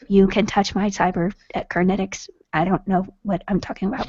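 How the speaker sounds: soft, even robot voice; ASMR robot voice. Acted. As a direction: murmur like a gentle robot. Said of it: "I'm going to talk like an A S M R robot".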